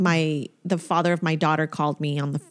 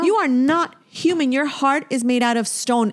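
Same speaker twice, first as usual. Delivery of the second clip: pitched-up, emphatic condemnation of an absent partner; indignant rebuke; 4 semitones higher than usual. Retold or imitated. Woman addressing the ex who never comforted her, indignant rebuke. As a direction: tell them off in heated disbelief.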